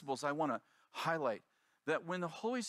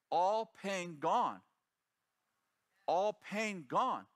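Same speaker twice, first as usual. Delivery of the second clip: slow broken English; 3 semitones higher, much slower than usual. Retold or imitated. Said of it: "she says".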